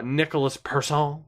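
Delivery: name said with a French accent; accidental French accent. Real, not acted. Gamer reading out a draft pick, accidental French accent. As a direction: slip into French pronunciation on the surname Persson. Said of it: "Don't know why I said it like that".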